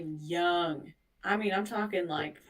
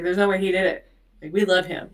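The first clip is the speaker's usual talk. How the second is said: retold adamant denial; 7 dB louder, much faster than usual. Grandparents defending their idol, retold.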